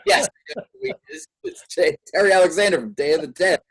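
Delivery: excited, high-pitched gushing; starstruck fan. Retold or imitated. Fan told a friend can reach his horror idol, excited. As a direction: blurt it out loud and high like a giddy fan.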